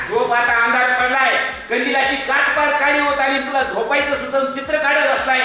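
Muktai scolding. Acted. Muktai telling him to sleep.

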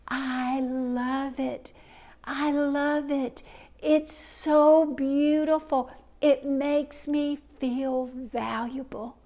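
slow, soft, lingering thanks; tender and moved. Acted. Mother deeply touched, thanking her daughter, slow and tender. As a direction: savor each word like a treasure.

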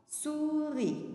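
souris ending on a long "ee", no final S; silent final S. Shown as a demonstration. Teacher shows pupils the S is silent, souris without final S. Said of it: "c'est silencieux".

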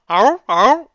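loud high yelping animal bark; zebra impression. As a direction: yelp it out like a zebra, badly. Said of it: "I was trying to make a zebra sound".

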